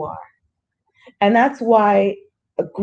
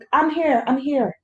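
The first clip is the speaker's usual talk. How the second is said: gentle reassurance; 5 semitones higher than usual. Pretend. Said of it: "it's just sitting like".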